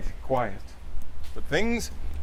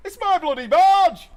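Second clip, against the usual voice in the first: high, louder mock scream; 13 semitones higher, 6 dB louder than usual. Linda Trout screaming at Larry on her barge, hammed-up high yell. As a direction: shriek it like an outraged boat owner. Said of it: "screamed Linda Trout".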